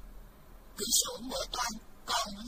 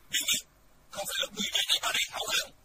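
shout; 4 dB louder, much faster than usual. A narrator's reading. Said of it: "hét".

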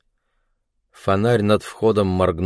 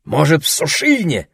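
suggesting; 8 semitones higher, 4 dB louder than usual. A narrator's reading. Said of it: "предположил Пао".

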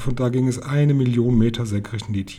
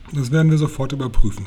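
loud, decisive cry; exclaimed; 3 semitones higher, 8 dB louder, faster than usual. A narrator's reading. Grandmother resolving to check the room, exclaiming loudly. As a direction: call it out, eager to act at once. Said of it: "rief meine Großmutter".

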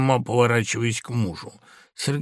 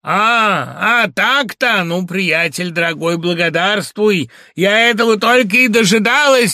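higher, louder triumphant cry; 5 semitones higher, 6 dB louder than usual. Acted. Wife after being slapped by her husband, triumphant cry. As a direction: shout that she was waiting for this. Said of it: "скрикнула Катерина Львовна".

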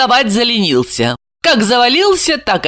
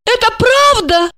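high, lost little question; tipsy woman turning to her lover; bewildered. A narrator's reading. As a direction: ask him in confused disbelief. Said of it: "растерянно".

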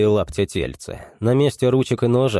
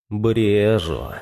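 anguished. A narrator's reading. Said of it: "с тоской понял".

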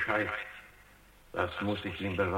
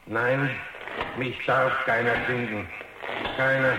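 louder, higher and rising to a fierce cry; defiant outburst; 3 semitones higher, 5 dB louder than usual. Acted. Robot insisting no one may find him, fierce outburst. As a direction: refuse with everything he has.

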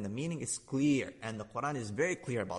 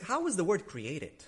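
slow quoted question; 7 semitones higher, slower than usual. Retold or imitated. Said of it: "He asked".

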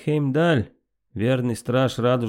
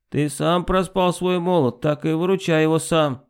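heated, pitched-up refusal; angry refusal; 5 semitones higher than usual. Acted. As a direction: refuse him in a burst of anger. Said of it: "в порыве гнева". (гневный отказ)

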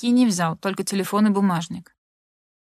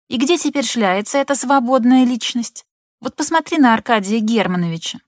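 lecturing mother; 3 semitones higher than usual. Acted. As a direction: nag her like a know-all mother. (мать поучает дочь, слегка напористо)

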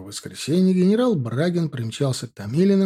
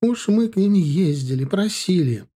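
plaintive; 6 semitones higher than usual. A narrator's reading. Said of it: "жалобно всхлипывать".

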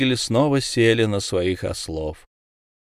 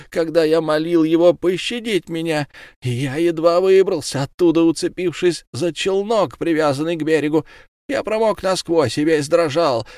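a touch higher, pleading complaint; lightly voiced whining fishmonger; 7 semitones higher than usual. A narrator's reading. Fishmonger pleading his grievance to the judge, mild high whine. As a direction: complain of his suffering, mildly raised. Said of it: "кричал Рыбник".

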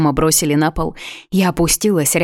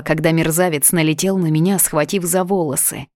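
ordinary delivery

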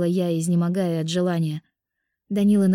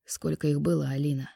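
accusing; 3 semitones lower, 5 dB quieter than usual. A narrator's reading. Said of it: "В голосе Данилы звучало обвинение".

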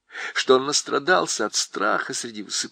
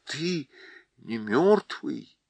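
испуганно; 5 semitones higher than usual. Acted. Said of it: "вдруг страшно испугался".

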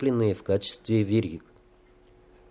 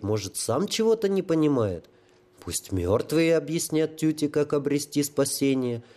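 a hint of a high childlike fool; lightly voiced holy fool; 5 semitones higher than usual. Holy fool asks the sapper, lightly childlike. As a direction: wonder aloud like a simple child.

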